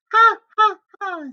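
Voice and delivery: high, spoken ha ha ha; high taunting pig laugh; mocking pig laugh. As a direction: laugh at the wolf in a piggy voice. The pig mocks the wolf.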